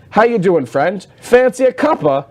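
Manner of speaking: a hammed-up Scottish pirate NPC, cheery; mock Scottish accent. Mocking the Scottish game characters' few lines, in mock Scottish accent. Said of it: "they got this weird Scottish thing going on".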